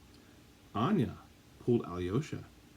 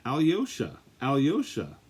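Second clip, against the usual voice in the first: put-on little girl calling her dog, a bit louder; calling the puppy; 3 semitones higher, 4 dB louder than usual. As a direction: call the puppy over. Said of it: "called Olga to her puppy".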